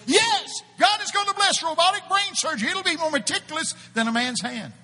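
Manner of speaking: mock himself as a redneck preacher. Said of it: "some redneck goes".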